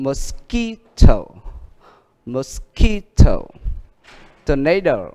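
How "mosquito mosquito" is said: mosquito stressed on the second syllable, mo-SQUI-to; stress rule demo. Shown as a demonstration. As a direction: say mosquito slowly, leaning on QUI. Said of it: "Nên nhấn trước nó một âm".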